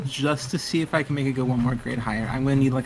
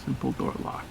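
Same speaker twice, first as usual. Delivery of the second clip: whispering; 11 semitones lower, 9 dB quieter than usual. Acted. Echoing the GM under breath.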